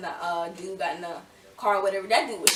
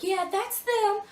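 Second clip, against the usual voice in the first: imitating Diamond; 12 semitones higher, slower than usual. Diamond confirming to her dad.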